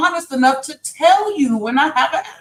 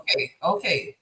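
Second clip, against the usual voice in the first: much softer, low and hushed; 6 semitones lower, 8 dB quieter than usual. Pretend. To the chat after being told she's yelling, pointedly hushed. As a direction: drop it right down on purpose. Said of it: "That sounds so much better".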